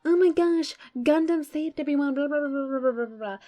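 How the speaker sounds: hammed-up fangirl impression; mocking gushing fans. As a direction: parody the fans who only praise Gundam. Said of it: "Everyone's like".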